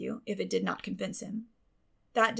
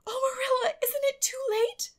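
high, airy, half-whispered cry; a much higher breathy child's plea; breathless hope; 4 dB louder than usual. Acted. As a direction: gasp it out, terrified it's too late. Anne hopes for the picnic.

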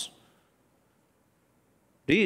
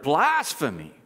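hammed-up shock on the word; fake outrage; slower than usual. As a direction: put on a show of outrage. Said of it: "The fake outrage".

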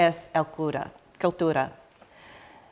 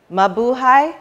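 rising, loud festive greeting; loud greeting call; 5 semitones higher, 6 dB louder than usual. Real, not acted.

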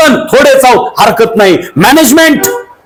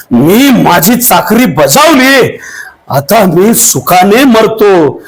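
slow, lower, fading farewell; dying last words; 4 semitones lower, slower than usual. Acted. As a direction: let each word come slow as life ebbs. (मरणासन्न बाजीचे संथ, खालच्या आवाजातले शेवटचे शब्द)

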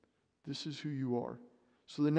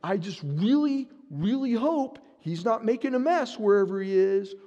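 mock fussy worry; 6 semitones higher, 7 dB louder than usual.

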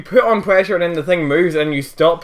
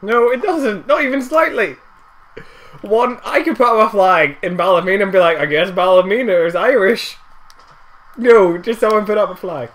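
louder, high-pitched arguing; heated objection; 7 semitones higher, 5 dB louder than usual. Real, not acted. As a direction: argue back, loud and indignant. Heated argument about a flag.

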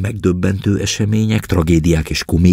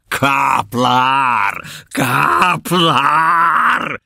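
a lightly raised, higher call; 7 semitones higher, much slower than usual. A narrator's reading. Captain summoning the corporal, calling out. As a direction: summon the corporal with a red face. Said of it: "kiáltotta neki vörösödött arccal".

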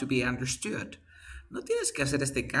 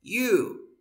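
"what" and "you" pulled apart and pitched up; high drawn-out what you; 8 semitones higher than usual. Shown as a demonstration. Teacher stresses the blended phrase for the class. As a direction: lift and separate "what" and "you". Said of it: "¿Te das cuenta?".

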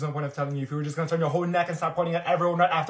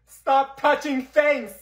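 slow, loud, high fury; furious shout; 8 semitones higher, 11 dB louder, much slower than usual. Acted. Girl furious at classmates handling her mother's spray. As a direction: bite off each word. Protecting mom's keepsake.

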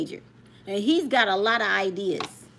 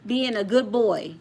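imitating Dean; 4 dB louder than usual. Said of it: "Dean said".

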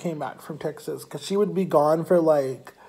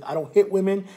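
higher-pitched mock indignation; retold anger; 5 semitones higher, 3 dB louder than usual. Ex-boyfriend angry at the girl, protesting indignantly. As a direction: imitate an angry friend protesting. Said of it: "he was really angry".

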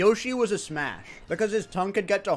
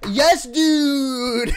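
high, loud whoop; excited yell breaking into laughter; delighted cheer; 7 semitones higher, 8 dB louder than usual. Real, not acted. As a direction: cheer loudly, about to crack up.

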